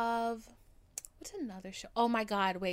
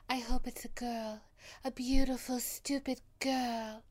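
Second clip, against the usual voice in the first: higher, soft dreamy heroine voice; 4 semitones higher, 4 dB louder than usual. Retold or imitated. Quoting the Gatsby actress's line about a girl, imitated soft voice. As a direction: deliver it softly, drawing out the last words. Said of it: "she's so soft".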